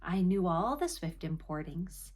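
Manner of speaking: measured, dramatic poetry reading with pauses between phrases; poem recitation. Acted. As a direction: recite it as lofty old verse, savouring the words. Reads a poem aloud.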